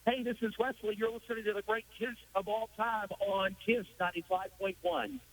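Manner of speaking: radio station ID read; smooth radio announcer. Shown as a demonstration. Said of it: "use your announcer voice".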